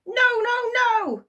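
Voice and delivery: very high, loud giggly no; squeaky giggle; giggling imp. A narrator's reading. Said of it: "giggled the little man".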